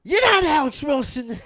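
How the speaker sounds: loud, high outburst tipping into laughter; retold accusation. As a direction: call out the impostor, half laughing. Calling out scammer, retold, laughing.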